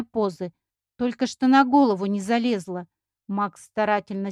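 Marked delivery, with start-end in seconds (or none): none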